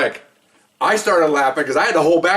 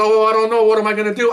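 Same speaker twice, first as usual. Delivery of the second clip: higher, hammed-up dismay; mock helplessness; 6 semitones higher than usual. Dumped partner to the one leaving, mock helplessness. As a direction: play lost without your partner.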